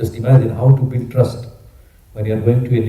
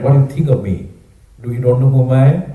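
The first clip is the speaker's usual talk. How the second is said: offended; 4 dB louder than usual. Acted. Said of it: "Then he became, sometimes you get offended".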